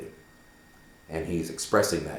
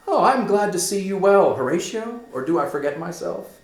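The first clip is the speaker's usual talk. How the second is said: raised, louder, warm delighted greeting; Hamlet greeting a friend; 13 semitones higher, 8 dB louder than usual. Acted. Hamlet welcoming Horatio, a louder glad greeting. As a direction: greet an old friend with real joy. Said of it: "Horatio, friend, loyal friend, says".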